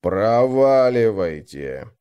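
slow, drawn-out growl of a guard; snarled retort. Acted. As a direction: bite the word off like a guard dog. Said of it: "огрызнулся охранник". (огрызнуться, протяжно)

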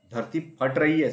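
loud, high, slow panic cry; all yell it together; group shout. A narrator's reading. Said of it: "सब जानवर चिल्लाए". (सब जानवरों की घबराई चीख)

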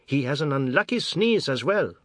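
high, loud spiteful taunt; taunting old woman. A narrator's reading. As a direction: taunt him with a curse. Grandmother taunts the father.

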